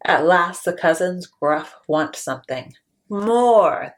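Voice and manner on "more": eager cry. Acted. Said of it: "they cry".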